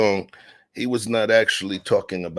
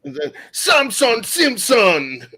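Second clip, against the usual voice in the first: laughing; 6 dB louder, slower than usual. Pretend. Laughing mock question.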